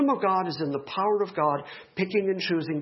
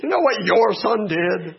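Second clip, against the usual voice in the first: imitating wife; 3 semitones higher, 6 dB louder than usual. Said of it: "suddenly she's disowned him".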